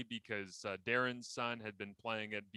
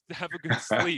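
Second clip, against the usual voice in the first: higher and louder, rising at the end; quoting the sign-off; 5 semitones higher, 10 dB louder than usual. Retold or imitated. Host quoting Mark Lee's sign-off to him, cheerful. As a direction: echo the anchor's cheery goodbye. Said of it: "I put on Mark Lee's sign off".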